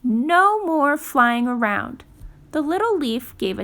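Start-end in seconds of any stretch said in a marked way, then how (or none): 0.0-2.0 a small creature giving firm orders; Fletcher's voice. Acted. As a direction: Fletcher tells the leaf to hold on. Fletcher tells the leaf.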